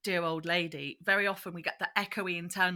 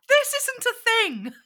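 high, slow squeaky sneer; mock review voice; 8 dB louder than usual. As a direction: stretch it out like a prissy critic.

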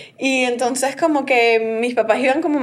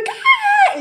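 stunned what. Retold or imitated. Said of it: "Y todo el mundo".

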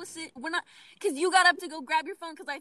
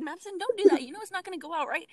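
scolding warning; 4 semitones higher, 6 dB louder, faster than usual. Retold or imitated. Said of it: "I said".

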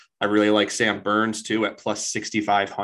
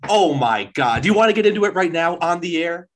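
mock exasperation; 8 semitones higher, 6 dB louder than usual. Mock on-air quarrel with Brian.

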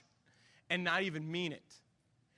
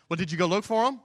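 a pointed, louder comeback; retorting wife; 3 semitones higher, 6 dB louder, faster than usual. Retold or imitated. Wife snaps back at husband over lost headphones, pointed and louder. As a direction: throw the question back at him. Wife answers him in a quarrel.

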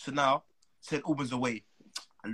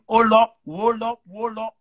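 higher, urgent "Hold up" fading each time; excited hold up; 7 semitones higher, 8 dB louder, slower than usual. Retold or imitated. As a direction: stop yourself short, excited. Retold excited stopping himself.

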